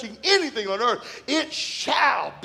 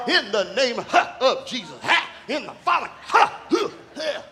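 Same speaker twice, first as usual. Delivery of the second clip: loud, hammed-up prayer with huffs; fervent prayer; 3 dB louder than usual. Young pastor laying hands on the couple, mock-fervent. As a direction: pray like you're going at it, huffing. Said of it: "I was going at it".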